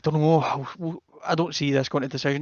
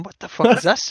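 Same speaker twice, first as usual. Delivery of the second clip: shocked; 8 semitones higher, 4 dB louder than usual. Retold or imitated. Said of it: "I'm going".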